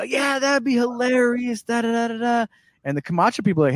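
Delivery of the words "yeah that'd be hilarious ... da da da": mock drunk Jack. Jack's drunk enthusiasm retold.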